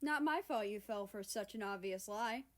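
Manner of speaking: a touch of chuckling smugness; chortling. Acted. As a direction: gloat with a light chuckle. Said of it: "she chortled".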